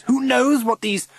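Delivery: very high, loud alarm; crying out. A narrator's reading. Governor warning the head about visitors, crying out. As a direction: cry out a scandalised warning. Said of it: "cries Missus Summers".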